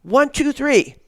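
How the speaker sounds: high, loud count for a crowd; retold count-in. Host counts kids in to shout, retold loud count. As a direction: count them in to yell.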